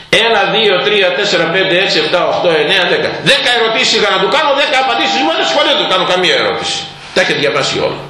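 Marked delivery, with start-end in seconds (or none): 0.1-6.8 high, fast and lively; brisk counting. Retold or imitated. The elder counts off the ten answers, fast and bright. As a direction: rattle off the numbers quickly and brightly.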